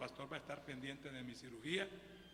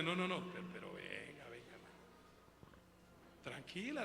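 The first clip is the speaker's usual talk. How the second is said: gentle calming; 4 semitones lower, 6 dB quieter than usual. Retold or imitated. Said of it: "con cariño le dije yo".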